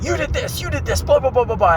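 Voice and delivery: high mocking singsong of a squabbler; mocking whiny quote. Vlogger mocking workers bickering, high whiny mimicry.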